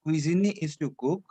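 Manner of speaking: "Cuisiner" as kwee-zee-nay; model French pronunciation. Shown as a demonstration. Teacher says repeat like this, model French pronunciation. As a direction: say "Cuisiner" ending in a clear ay. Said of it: "Repeat like this".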